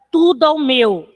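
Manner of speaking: TUDO AO MEU with the end of TUDO fused into AO; vowels run together. Shown as a demonstration. Teacher showing poetic syllables, vowels joined in TUDO AO MEU. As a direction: link TUDO AO MEU without a break. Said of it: "como as vogais se juntaram".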